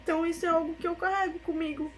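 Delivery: voz embargada, mais aguda, com pausas; choro contido. Real, not acted. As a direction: seguir o relato à beira das lágrimas. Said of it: "é impossível falar e não chorar". (voz de choro, embargada)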